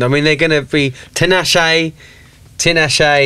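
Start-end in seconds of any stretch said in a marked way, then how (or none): 1.1-3.3 lightly imitated Essex accent on the name. Friend explains how locals say Tinashe, Essex accent. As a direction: say the name in mock Essex, ending like "shy". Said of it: "That's the accent".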